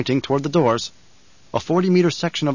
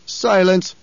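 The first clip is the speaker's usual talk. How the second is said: commanding emperor; 6 semitones higher, 4 dB louder than usual. A narrator's reading. Emperor orders silence.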